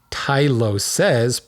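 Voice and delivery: "Tyloses" in separated syllables, last one stressed; plural pronunciation. Shown as a demonstration. Host reads a listener's correction on the plural, carefully pronounced. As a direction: say "Tyloses" with a clear final "seez". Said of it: "plural, T Y L O S E S, not I S".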